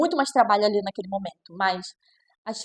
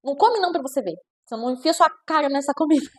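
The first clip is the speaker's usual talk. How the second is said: mock strict parent; 3 semitones higher, 3 dB louder than usual. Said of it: "O autoritário vai falar o quê?".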